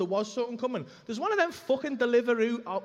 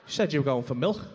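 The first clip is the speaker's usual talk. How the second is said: acted incredulous wife; 4 semitones lower than usual. Imagined wife confronting him over video.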